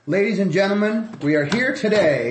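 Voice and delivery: radio announcer introducing a guest. Pretend. Host welcoming a good friend to the show, radio announcer voice. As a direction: open big, then settle into a measured welcome. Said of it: "you turn into a radio announcer all of a sudden".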